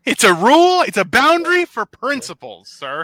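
loud, high mock-stern insistence. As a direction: declare it like a pompous rule-keeper.

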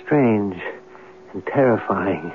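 measured, brooding radio narration; story narration. A narrator's reading. Writer narrates his plan to sleep in the room, brooding.

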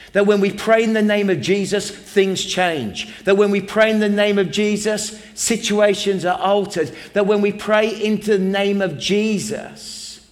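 loud, driving pulpit refrain, building on each pray; preaching at full force. Acted. Pastor rallying the congregation about prayer, preaching at full force. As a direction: preach it, hammering the repeated line.

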